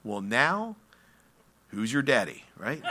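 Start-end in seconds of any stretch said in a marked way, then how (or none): none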